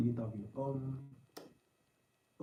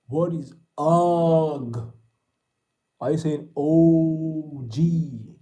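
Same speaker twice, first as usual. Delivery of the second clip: mock disbelief; 4 semitones higher, 10 dB louder, much slower than usual. Mocking a chat message.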